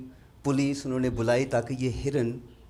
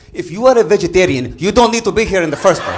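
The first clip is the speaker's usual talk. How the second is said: indignant retort; 7 semitones higher, 14 dB louder than usual. Retold or imitated. Arab guy's punchline retort.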